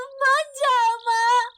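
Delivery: slow, sobbing little voice; crying child. Acted. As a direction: beg through sobs not to be left. Child begs again. (सिसकते हुए बच्चे की विनती)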